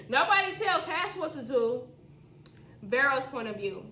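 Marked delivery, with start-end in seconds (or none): 0.1-1.9 laughing, high and louder. Acted. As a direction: repeat it while laughing. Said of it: "laughs, repeats with laugh".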